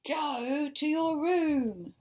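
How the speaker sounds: slow, high, loud order; stern order. Acted. Mother reading the book, ordering David to his room. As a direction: send him away firmly.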